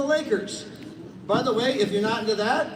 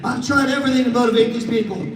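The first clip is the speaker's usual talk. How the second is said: loud, worn-out protest; burnt-out recruiter complaining loudly to John; exhausted complaint; 5 dB louder than usual. Retold or imitated. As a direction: vent like you've tried everything. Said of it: "I'm exhausted".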